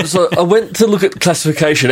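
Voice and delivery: laughter leaking through; words through a chuckle; trying not to laugh. Real, not acted. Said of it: "We both laugh".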